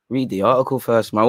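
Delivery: mock replay of a stray Mancunian-like accent; mimicking own accent slip. Host replaying what happened to his voice, mimicking the accent. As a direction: echo your accidental northern accent slip, puzzled. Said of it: "what happened to my voice?".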